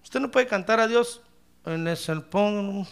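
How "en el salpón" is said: slow, choked-off mock singing; throat gripped. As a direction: act as if the throat is seized mid-phrase. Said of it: "algún demonio tiene agarrada su garganta".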